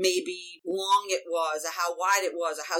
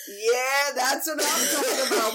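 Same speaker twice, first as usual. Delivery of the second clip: put-on teen snickering; 2 semitones higher than usual.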